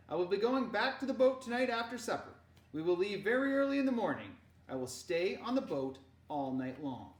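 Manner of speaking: loud, meaningful uncle's voice; grave uncle. Acted. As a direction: say it with hidden weight. Henrik voiced.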